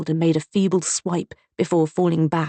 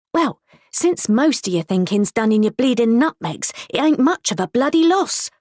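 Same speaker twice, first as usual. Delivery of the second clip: cutting, higher retort; callous retort; 6 semitones higher than usual. A narrator's reading. Wife retorting to her groaning husband, callous and cutting. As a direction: dismiss him coldly. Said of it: "she responded callously".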